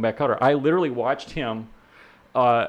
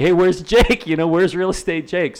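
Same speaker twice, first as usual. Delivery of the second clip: higher, louder pestering-crowd imitation; mock calling out; 6 semitones higher, 5 dB louder than usual. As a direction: mimic people demanding to know where he is. Imitating people who always ask him.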